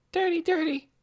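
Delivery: put-on childish repeat. A narrator's reading. Little Poppy repeats a word.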